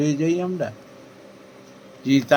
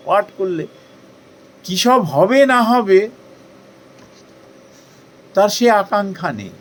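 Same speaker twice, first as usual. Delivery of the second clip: fervent preaching; 6 semitones higher, 6 dB louder than usual. Acted. Preaching with rising fervour.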